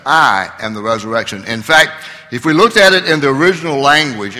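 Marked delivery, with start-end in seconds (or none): 0.0-1.4 "I" stressed and set out ahead of the rest; bold emphasis on I. Retold or imitated. Preacher quoting Jesus's claim about himself, bold emphasis on "I". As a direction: lean firmly on the opening "I". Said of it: "put the bold emphasis on himself".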